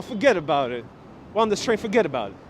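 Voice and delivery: playful touch of New York accent. Shown as a demonstration. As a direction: say it like a real New Yorker, lightly. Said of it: "talking that real New York accent".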